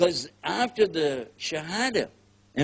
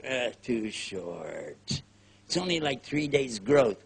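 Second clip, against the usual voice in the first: mock judging; 4 semitones lower, slower than usual. Judging newcomer's beard.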